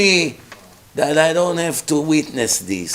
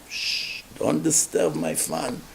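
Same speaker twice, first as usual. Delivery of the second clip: hushing whisper; 11 semitones lower, 7 dB quieter, slower than usual. Pretend. Diner hushing wife.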